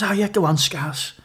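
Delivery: a light Cockney accent, imitating Reggie. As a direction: toss it off in a hint of Cockney. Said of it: "does I sound like a Cockney then".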